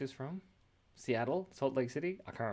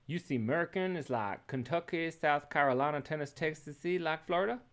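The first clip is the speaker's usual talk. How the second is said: playful Texan twang, pitched up; higher-pitched mock Texan accent; 4 semitones higher than usual. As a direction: put on a Texas accent. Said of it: "can't go from Texas to Irish".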